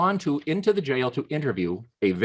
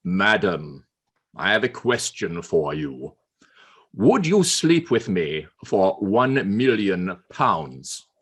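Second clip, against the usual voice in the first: lower, slow, hushed sly offer; Churchill's proposition; 5 semitones lower, slower than usual. Acted. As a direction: drop low and let the offer hang.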